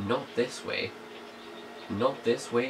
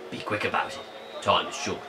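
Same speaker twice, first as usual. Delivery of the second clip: put-on British accent; 3 semitones lower, faster than usual. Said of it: "he sounded British".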